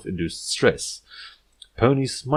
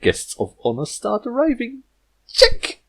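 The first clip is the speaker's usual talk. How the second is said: vivacious whisper; 13 semitones higher, 3 dB louder than usual. Acted. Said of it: "spoke in a vivacious whisper".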